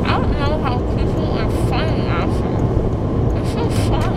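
high, loud and loopy; giddy drugged voice; groggy from anesthesia. Real, not acted. Post-anesthesia.

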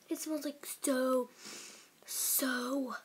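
speaking with candy touching lips; candy held at lips. Real, not acted. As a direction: lips against a sweet. Seen 1: Red candy pressed to lips while speaking, lowered after 2.6s.

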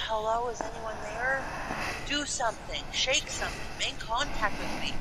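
sarcastic ghost hunter. Retold or imitated. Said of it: "this is me being sarcastic".

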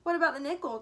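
loud, insistent challenge; demanding. A narrator's reading. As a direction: demand an answer, raising the volume. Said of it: "demanded Mike".

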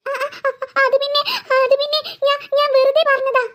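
shaky, stuttering mock fright; frightened stammer. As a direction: stumble over the excuse, scared. Sister stammers excuse to ghost.

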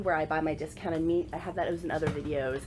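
nasal, like a stuffy nose; nasally voice. Real, not acted. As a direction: talk with a blocked-up nose. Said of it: "Excuse my nasally voice".

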